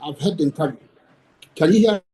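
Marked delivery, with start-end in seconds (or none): 1.5-2.0 signal cutting in and out; breaking up. Real, not acted. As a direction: voice dropping out on a bad line. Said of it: "You're going in and out".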